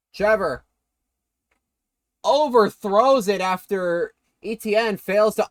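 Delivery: lively football commentary; live play-by-play. Real, not acted. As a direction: call the play as it happens. Calls the game live.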